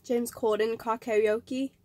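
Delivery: slow, questioning fake British accent; retry a clumsy British accent, unsure; badly faked British accent, drawn out. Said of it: "That was such a bad accent".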